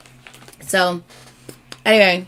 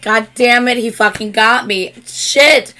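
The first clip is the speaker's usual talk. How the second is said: loud, raised cursing, beaten by emotion; retold exasperation; 4 semitones higher, 6 dB louder than usual. Fan retelling tears at the singer's speech, exasperated. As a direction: replay the frustration, punching out the curses.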